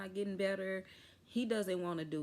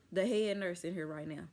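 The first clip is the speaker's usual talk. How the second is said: says head nurse by mistake; wrong name slip. Retold or imitated. Patient demanding staff, naming the head nurse by mistake. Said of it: "My mind went blank on, uh, the charge nurse".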